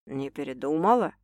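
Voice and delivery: low tentative enquiry; man asking. A narrator's reading. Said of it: "вдруг спросил любимый шеф".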